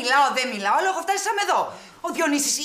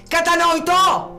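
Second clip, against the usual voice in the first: much higher and louder, dragged out slowly; slow furious shout; 13 semitones higher, 7 dB louder, much slower than usual. Acted. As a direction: bellow the word to end the argument. Repeats the question as a demand.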